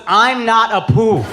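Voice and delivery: put-on slow Indian-accented protest, lightly done; a hint of his parents' Indian accent; imitating Indian parents. Parents objecting to Apu in their Indian accent. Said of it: "offended my parents about Apu was".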